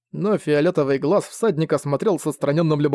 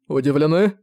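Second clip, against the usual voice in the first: amplified voice. Acted. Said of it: "усилил свой голос Зориан".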